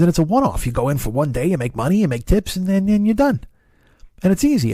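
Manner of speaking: lightly voiced neighbor selling easy work; a hint of Lou's pitch, climbing as he goes; Lou impression. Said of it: "your ears are bleeding from my Lou".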